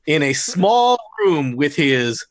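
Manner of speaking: slow dramatic scene-setting voice; game master narration. Acted. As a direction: set the scene slowly, with weight.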